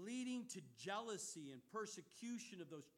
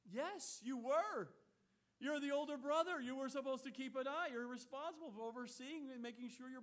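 louder and higher, hammering each phrase; fiery preacher calling out guilt; forceful rebuke; 7 semitones higher, 8 dB louder than usual. Real, not acted. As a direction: preach it straight at him, full force.

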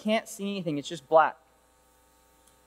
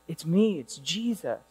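low, soft, steady voice of Jesus; 5 semitones lower, 5 dB quieter than usual. Acted. Preacher voicing Jesus answering the fallen Saul, low and soft. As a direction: say it gently and low, with weight.

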